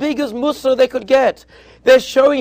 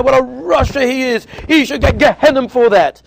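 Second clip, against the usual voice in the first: a hammed-up yell of cursing, raised in pitch and voice; mock angry yell; 4 semitones higher, 5 dB louder than usual. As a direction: play the driver cursing out the man who blocked him. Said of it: "cursing out the guy and screaming".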